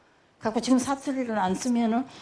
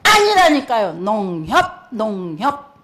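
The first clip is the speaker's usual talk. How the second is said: exasperated correction; 6 dB louder, slower than usual. Retold or imitated. Son correcting mother, exasperated.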